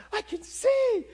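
high, loud cry of amazement; joyful cry. Retold or imitated. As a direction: shout it out, overjoyed. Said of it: "And she's going".

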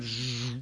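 buzzing zap noise; a drawn-out electric zzz; imitated zap. Preacher showing God's power going out, buzzing.

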